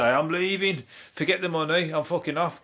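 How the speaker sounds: hammed-up walkout; mock panicked quitting. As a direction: play a scared celebrity quitting on the spot. Acting out panicked celebrities quitting.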